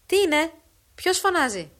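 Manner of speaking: loud, high shouted question; father answering the cries from the far field, loud; distant call back. Acted. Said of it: "ακούστη φωνή πέραν του ακρινού φράκτου".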